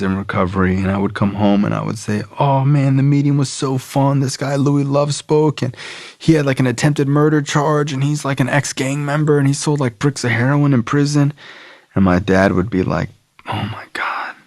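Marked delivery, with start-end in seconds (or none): 2.4-11.3 excited gushing. Retold or imitated. Telling dad about meetings, young self. 13.5-14.3 breathless whispered dismay; dad's hushed whisper of dismay; horrified whisper. Retold or imitated. Dad reacting in horror.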